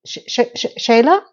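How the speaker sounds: stammering disbelief, rising on the name; stunned stammer. Retold or imitated. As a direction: choke on the name in shock. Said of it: "That set Charlotte off".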